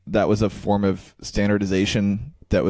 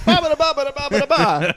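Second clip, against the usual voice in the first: very high babbled fake Italian; squeaky parody of Italian chatter; mock Italian gibberish; 4 dB louder than usual. Co-host shows off his Italian, in high mock Italian babble. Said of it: "I'm pretty good at Italian".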